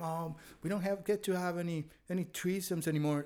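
mock whiny complaint; lightly whining, like a sulky kid. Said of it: "in this whiny voice".

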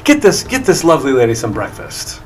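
high, loud apologetic gnome; effusive gnome. Acted. Gnome entertainer to woken lady, effusive high apology. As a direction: fuss loudly over a lady you woke. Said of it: "the gnome turns around and he says".

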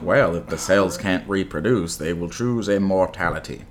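lightly imitated, measured voiceover narrator; a hint of solemn documentary narration; Morgan Freeman. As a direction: intone it like a film narrator. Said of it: "where Morgan Freeman's like".

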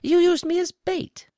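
high, loud accusation; angry. A narrator's reading. Woe accuses the spy of using him, angry. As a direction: throw it at them, high and angry. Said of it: "now angry at this alien spy".

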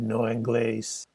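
put-on slow, North African French accent. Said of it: "his North African French accent".

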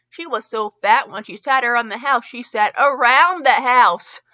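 put-on loud, laughing drunk punchline; hammed-up drunken joke; drunken punchline shout. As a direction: bellow the joke with whiskey mirth. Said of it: "he had shouted".

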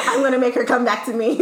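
gleeful retold vow through laughter; amused mock determination; laughing scheme. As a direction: confess the plan while cracking up. Retells scheme while laughing.

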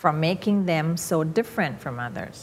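slow, linked "From making them so different from others"; smooth rhythm through "making", "so different", "others"; gentle ups and downs. Shown as a demonstration. Teacher modelling English rhythm, gentle rise and fall. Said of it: "มันจะมีขึ้นลง ขึ้นลง".

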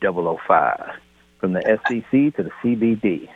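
pilot announcing to passengers; captain's cabin address; airport announcement. Pretend. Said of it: "this is your captain speaking".

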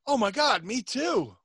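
put-on high squealing girlish voice; mock girly squeal. Guy telling a road story, mocking a girly fan squeal. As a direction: gush like a teen fan. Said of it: "We're like a couple chicks".

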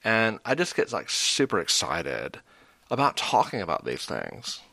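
vocal fry gushing, hammed-up. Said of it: "It's the vocal fry".

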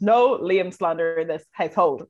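talking while chewing gum. Real, not acted. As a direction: speak around a piece of gum. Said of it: "Can you hear me chewing gum?".

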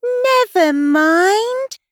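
high, slow, lilting comfort; singsong reassurance; soothing. A narrator's reading. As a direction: croon it high and drawn out. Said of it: "in a soothing tone".

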